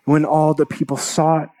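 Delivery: measured, dramatic Bible reading; steady sermon reading voice; scripture reading. Acted. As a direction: read the passage like a preacher to the congregation. Preacher reads scripture aloud.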